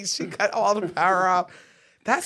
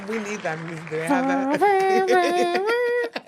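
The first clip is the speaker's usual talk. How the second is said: laughing; 8 semitones higher, slower than usual. Real, not acted. Laughing while asking.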